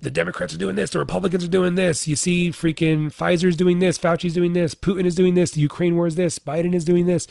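lightly voiced political-show ranter; political pundit. Dad mimicking political theater shows, lightly voiced pundit. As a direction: rattle off accusations in a steady, insistent list. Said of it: "political theater shows that are like".

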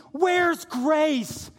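loud, high pulpit cry; imitated scream for help; screaming plea. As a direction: cry it out like a desperate demand. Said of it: "are really screaming".

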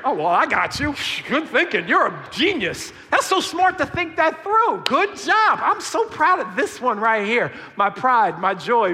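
doting praise. Retold or imitated. Doting dad praises daughter.

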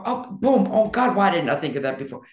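a sudden high burst of discovery; light up at the idea; excited realization. Retold or imitated. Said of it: "that I go".

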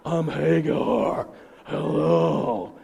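put-on slow, heavy Russian accent; a burly Russian strongwoman saying hello; hammed-up Russian accent; mock Russian weightlifter. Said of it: "like this Russian female weightlifter".

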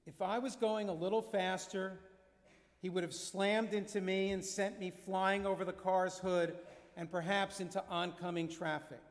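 usual speaking voice

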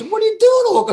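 high, loud mock yell at him; teammate yelling. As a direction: shout it across the ground like an angry teammate. Teammate yelling at a wayward kick.

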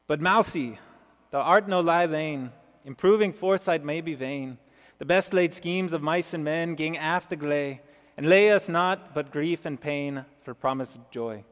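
put-on a light, self-conscious Scottish accent on the old verse; reading Burns in a hammed-up Scottish accent. Preacher reads Burns to the congregation in a mild Scottish accent. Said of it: "read a stanza from the poem in my very best Scottish accent".

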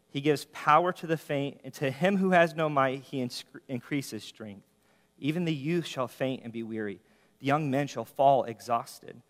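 emphatic, measured Bible reading from the pulpit; scripture reading. Acted. Pastor reads God's response to the congregation, proclaiming scripture. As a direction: proclaim the verses to the church, stressing key words.

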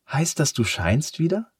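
hohe, hoffnungsvolle Kinderfrage; hoffnungsvoll. A narrator's reading. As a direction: voller Hoffnung nachfragen. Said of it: "fragte Helena hoffnungsvoll". (hoffnungsvolle Frage eines Kindes an die Sonne)

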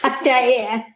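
laughing greeting. Shown as a demonstration. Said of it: "say it with me right now".

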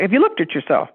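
totally emotionless, even delivery; deadpan psychologist. Retold or imitated. Comedy-skit psychologist answering a fearful patient, deadpan. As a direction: ask it with no emotion at all. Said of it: "totally no emotion".

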